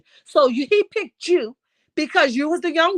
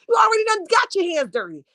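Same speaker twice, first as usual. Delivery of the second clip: raised, scolding outburst; exasperated shout; 6 semitones higher, faster than usual. Real, not acted. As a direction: yell it in disbelief. Heated rant, shout heard.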